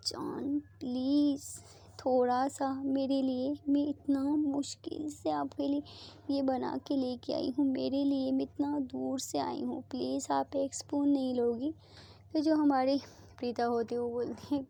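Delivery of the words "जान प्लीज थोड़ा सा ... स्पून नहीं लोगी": very lovingly. Acted. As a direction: coax her tenderly, almost whispering. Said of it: "बहुत प्यार से बोलती है".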